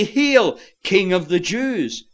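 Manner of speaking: loud, high mock acclaim; mocking hail. Soldiers mocking the robed and crowned prisoner, mock acclaim. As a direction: hail him high, then let it fall. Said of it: "when they mock him".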